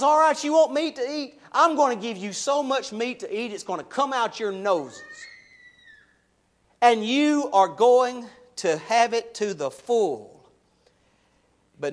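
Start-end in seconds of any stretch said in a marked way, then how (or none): 0.0-10.4 God's sarcastic attitude. Retold or imitated. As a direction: throw their wish back at them with scorn. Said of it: "Can you feel the attitude of God here?".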